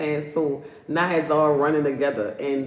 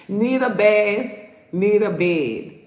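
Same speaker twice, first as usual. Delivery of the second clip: mocking singsong; 3 dB louder, slower than usual. Mocking tired man, slowed.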